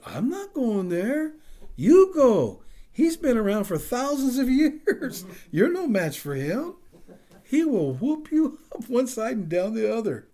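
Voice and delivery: put-on high, loud, comic Mexican-American accent; Pancho Juarez, heavy accent. Pastor refusing to go fight Satan, loud Mexican-American accent. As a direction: exclaim a refusal in a hammed-up Mexican-American accent, laughing through it. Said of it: "with a heavy accent".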